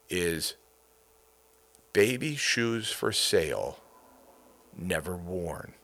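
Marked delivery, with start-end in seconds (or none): 1.9-5.7 slow, soft, sorrowful reading of the story; sad reading. Shown as a demonstration. Host reads the saddest short story, sadly. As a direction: let the loss sink in on Never Worn. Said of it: "depending upon how you hear that".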